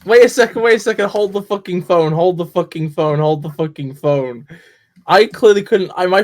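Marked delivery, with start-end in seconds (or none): 0.0-4.5 excited realisation. Real, not acted. Realising a friend heard a Bristol accent, excited and then settling.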